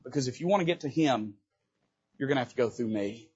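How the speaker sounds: shield him with your voice; quiet protective warning. Acted. David steps between them, quiet and firm. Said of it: "And he says".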